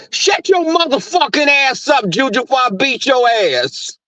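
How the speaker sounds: hammed-up angry dog scolding; black voice. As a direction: let the real threat come out. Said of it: "black voice comes out".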